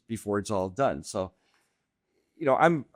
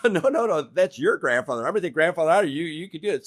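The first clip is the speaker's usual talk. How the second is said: imitating the wife refusing; 4 semitones higher than usual.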